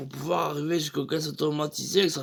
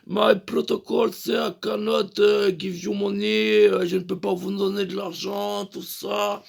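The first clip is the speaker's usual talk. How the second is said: robotic voice; 2 semitones higher than usual. Retold or imitated. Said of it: "un peu robotisé".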